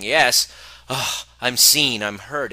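hammed-up joy at being seen; mock elation. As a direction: gush like someone finally validated. Mock validation after sold-out event.

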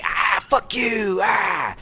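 angry bee. Retold or imitated. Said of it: "They're always like".

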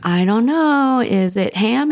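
hungry father guessing his lunch, lifted and eager. Retold or imitated. Trotty guessing in retelling.

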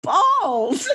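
high, loud laughing punchline; laughing reveal. Retold or imitated. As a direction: burst out laughing on the last word. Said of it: "I was like".

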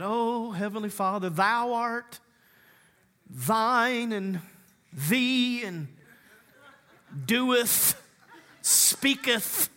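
a hint of a pompous, archaic prayer voice; lightly voiced thee-and-thou prayer, poking fun; mock King James prayer. Pastor lightly mocking a church member's archaic prayer. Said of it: "Stop talking like that".

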